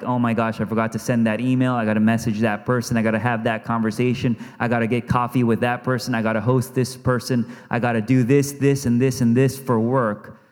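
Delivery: frantic rush. Acted. Frantic imagined to-do list.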